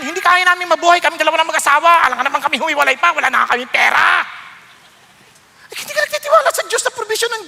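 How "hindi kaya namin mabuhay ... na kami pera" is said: mock protest. Mimicking a protesting couple.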